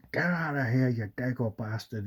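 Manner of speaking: mock tough send-off to an intruder; acted angry dismissal. Movie line ordering gangster out.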